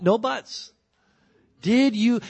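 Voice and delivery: no excuses allowed, bark it out; stern loud demand. Acted. God demanding an answer from Adam, stern loud voice. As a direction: cut him off sharply, loud and high.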